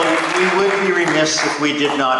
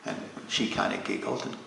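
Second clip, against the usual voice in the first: soft coaxing; 3 semitones lower, 5 dB quieter than usual. Acted. Lena coaxing Ole again.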